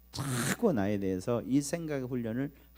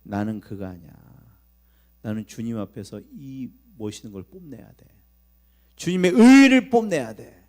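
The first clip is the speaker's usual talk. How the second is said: proud resolve; 3 semitones lower, 10 dB louder than usual. Shown as a demonstration. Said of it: "생각을 바꾸시기 바랍니다".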